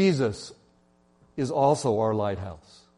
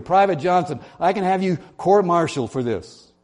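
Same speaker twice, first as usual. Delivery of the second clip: loud, higher furious commands; yelling captain; 4 semitones higher, 4 dB louder than usual. Acted. Riled captain yelling his final order at the private, enraged. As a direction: yell it like a captain who has lost patience. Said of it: "he yelled back on the radio".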